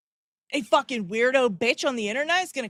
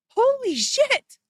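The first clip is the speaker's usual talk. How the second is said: much higher, slow disbelieving gasp of words; stunned exclamation; 12 semitones higher, 4 dB louder, much slower than usual. Real, not acted. Streamer reacts to the demand, stunned and drawn out. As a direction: let it drag out in shock.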